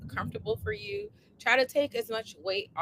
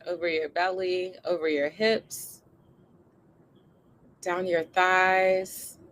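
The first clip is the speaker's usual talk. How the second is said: guided meditation; 3 dB louder than usual. Acted. Leads body scan and breathing.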